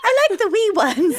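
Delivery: high laughing repeat of wee. Real, not acted. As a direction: giggle through "wee ones".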